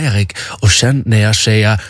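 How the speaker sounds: imitated passive-aggressive German nurse. German nurse instructing a patient, passive-aggressive. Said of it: "hon var liksom så här passivt aggressiv".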